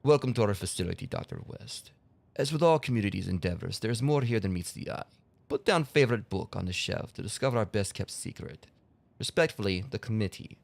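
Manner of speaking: leicht angedeuteter russischer Akzent beim Vorlesen der Notiz; Russian accent. Shown as a demonstration. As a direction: read the note in a light mock Russian accent. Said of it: "I gotta do the Russian accent".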